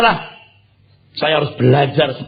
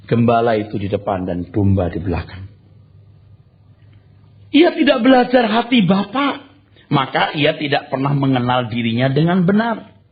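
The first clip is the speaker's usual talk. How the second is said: ordinary delivery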